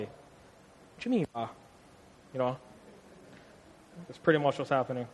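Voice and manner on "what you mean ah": slow, drawn-out Hawaiian pidgin retort; playful Hawaiian pidgin comeback, lightly voiced. Local from Hawaii teased on the mainland, Hawaiian pidgin. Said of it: "we talk pidgin".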